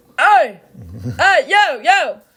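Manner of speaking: failed Boston accent, very drawn out, slow and swooping. Admitting not knowing how Boston people talk, then trying a bad Boston accent. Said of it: "That's an unidentifiable accent".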